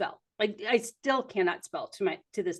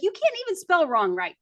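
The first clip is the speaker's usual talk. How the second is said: teasing dad; 8 semitones higher than usual. Retold or imitated. Dad ribbing his daughter about spelling, teasing. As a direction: rib her like an amused dad. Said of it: "He's like".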